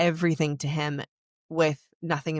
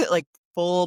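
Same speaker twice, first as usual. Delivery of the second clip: laughing; 5 dB louder than usual. Real, not acted. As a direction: laugh through the word. Laughs while telling of bawling.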